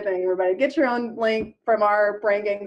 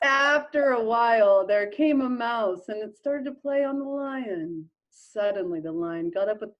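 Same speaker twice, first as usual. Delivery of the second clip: fast slow lit read. Pretend. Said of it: "the fastest fucking slow lit read I've ever heard".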